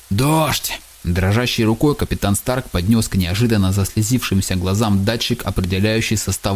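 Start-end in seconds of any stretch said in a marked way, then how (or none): 0.1-0.8 higher, rising joy; joyful cry. Acted. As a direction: shout it in amazed delight. Captain sees rain, disbelief.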